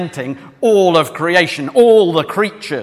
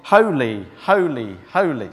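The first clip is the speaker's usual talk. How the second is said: each "holy" set apart by a pause; "holy, holy, holy" as three separate beats; counted-out triplet; 3 semitones lower than usual. Shown as a demonstration. Preacher showing the three lots of three, counted out. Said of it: "you get three lots of three".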